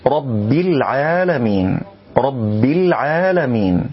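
slow "رب" with a held bb released into i; doubled ba, clear kasra. Shown as a demonstration. Teacher models for learners, weighted ba and full kasra. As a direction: press the b of "رب" then a clean i into العالمين. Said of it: "بيان الثقل أي التشديد في حرف الباء مع تحقيق الكسر".

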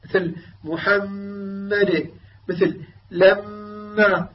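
held humming ghunna on the shadda mim; long nasal ghunna. Shown as a demonstration. Teacher stretching the doubled mim slowly. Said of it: "الغنة فيها أعلى ما يكون".

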